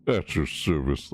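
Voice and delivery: slow, lightly put-on servant voice; mock butler; imitating Blade. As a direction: echo the game line slowly. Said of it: "Blade's like".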